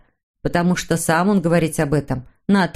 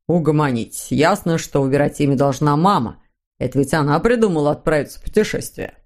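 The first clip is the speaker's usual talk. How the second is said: lightly voiced father, pitched lower; calming father; 4 semitones lower than usual. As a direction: settle the children in a mildly lowered voice. Father character speaks. (слегка пониженный отцовский голос)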